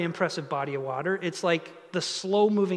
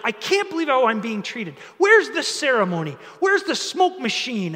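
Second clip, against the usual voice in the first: higher, indignant mock complaint; acted mad; 4 semitones higher, 4 dB louder than usual. Naaman demands his ceremony and smoke machine, mock outrage. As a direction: demand it as if short-changed, mildly angry. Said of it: "He's so mad".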